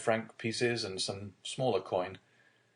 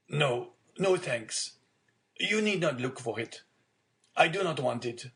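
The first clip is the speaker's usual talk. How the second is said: lightly voiced old man, pitched up; old father declining; 6 semitones higher than usual. Old father refusing his son's wine, mildly protesting. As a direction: gently refuse help in a higher voice.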